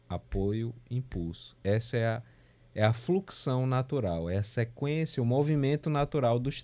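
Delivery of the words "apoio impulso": "Apoio" low and unforced, "impulso" softer still; gentle two-beat chant without a strong beat; support-impulse flow. Shown as a demonstration. Music teacher recapping natural beat flow, unaccented support and impulse. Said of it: "Existe um apoio e um impulso".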